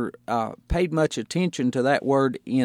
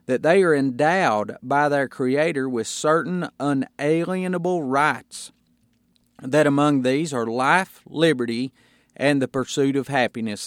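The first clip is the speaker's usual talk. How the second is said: measured, solemn reading of the Declaration; formal reading. Real, not acted. Pastor reading the Declaration to his congregation, solemn. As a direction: read it out like a founding text.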